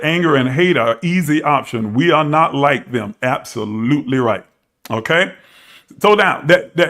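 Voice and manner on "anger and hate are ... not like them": ordinary talk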